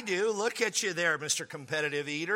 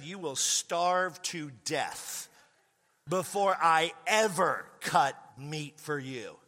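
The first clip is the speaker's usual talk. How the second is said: very slow, deliberate words; slow defiant retort; slower than usual. Retold or imitated. Refusing to cut his date's meat, very slow and deliberate. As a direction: spell it out slowly to make the point.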